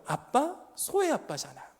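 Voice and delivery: little daughter's voice. Shown as a demonstration. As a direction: say it like a small child pleading. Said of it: "들어보세요".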